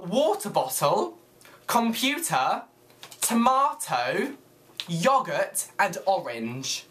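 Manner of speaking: each word slow and separate; slow word list. Shown as a demonstration. Vlogger giving viewers words to say, slow and deliberate. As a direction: read the list out slowly, pausing between items.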